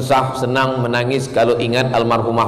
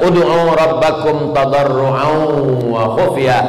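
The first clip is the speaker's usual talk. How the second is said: Quran recitation; slower than usual. Acted. Quotes a Quran verse.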